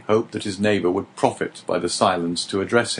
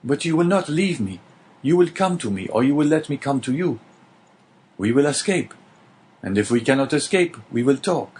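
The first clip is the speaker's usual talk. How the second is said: higher, quick and eager, clinging to hope; pleading young prisoner; 3 semitones higher than usual. Acted. Dante pleads with his neighbour to stay and be his companion, eager. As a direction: beg for a friend, pressing on.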